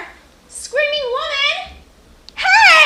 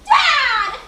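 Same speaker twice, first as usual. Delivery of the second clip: calling out. Acted. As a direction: call for Dad urgently. Calling for father from afar.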